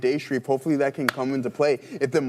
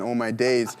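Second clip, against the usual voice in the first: put-on English accent; 4 semitones lower than usual. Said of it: "English accent".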